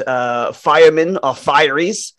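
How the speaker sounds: put-on amateur Australian accent; attempted Australian accent. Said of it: "that's my attempt at an Australian accent".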